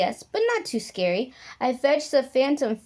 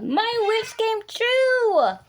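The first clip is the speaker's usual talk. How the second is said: joyful ending; 12 semitones higher, slower than usual. A narrator's reading. Happy ending line, drawn out.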